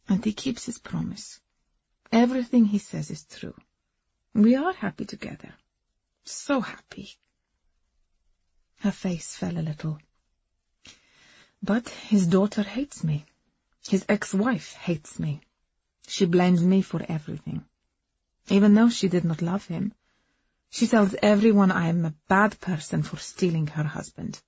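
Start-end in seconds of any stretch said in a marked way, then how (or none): 0.1-7.1 put-on lightly accented woman recounting her love story; foreign-accented Agnes. Woman confiding her romance to a companion, earnest accented voice. 11.6-24.4 put-on accented woman airing her hurt; foreign-accented Agnes, aggrieved. Second wife complaining about her husband's family, aggrieved accented voice.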